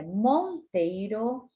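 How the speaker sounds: Monteiro said slowly with the nasal N held; slow stretched Monteiro. Shown as a demonstration. Teacher showing the nasal in Monteiro, slow. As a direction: draw out Monteiro so the N is heard. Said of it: "Observe que o N está antes do T".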